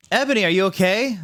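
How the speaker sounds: concerned. Acted. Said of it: "in a concerned voice".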